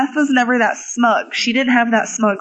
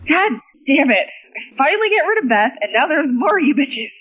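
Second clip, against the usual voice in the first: higher-pitched mock exasperation; hammed-up fed-up griping, building then easing off; irritated; 4 semitones higher than usual. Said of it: "she was just truly irritated".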